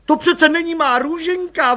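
high, loud alarmed blurt. A narrator's reading. Mother seeing a strange baby, blurting out in alarm.

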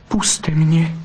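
high pleading little vixen. A narrator's reading. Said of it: "zaprosila bystrouška". (prosebná vyšší lištička)

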